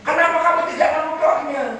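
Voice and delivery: high, fast, laughing ask; the Prophet urgently asking his wife; urgent question. Acted. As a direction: fire the question quickly with a laugh.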